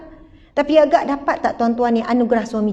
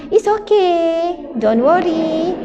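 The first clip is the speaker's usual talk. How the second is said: mock calm; 4 semitones higher, much slower than usual. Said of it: "memang tak marah".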